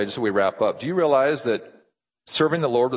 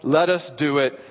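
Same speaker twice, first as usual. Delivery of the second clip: earnest, emphatic pastoral prayer; public prayer; 3 semitones higher than usual. Real, not acted. Pastor praying to the Father for the congregation, earnest. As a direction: plead fervently, then settle toward the close.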